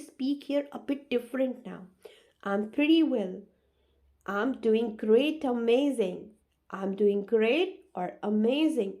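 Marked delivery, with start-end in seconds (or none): 2.4-6.3 enthusiastic answer. Shown as a demonstration. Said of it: "you have to speak like this". 6.7-9.0 enthusiastic answer. Shown as a demonstration. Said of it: "you have to speak like this".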